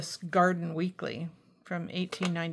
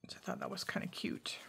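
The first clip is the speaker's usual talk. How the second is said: soft breathy whisper; 9 dB quieter, faster than usual. Real, not acted. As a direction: whisper it to yourself. Quiet aside while crafting.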